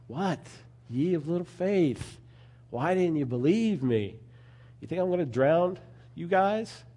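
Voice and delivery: a touch of incredulity, teasing the doubters; Jesus, mildly incredulous. Retold or imitated. Jesus waking in the storm to his panicking disciples, lightly incredulous. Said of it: "he's like".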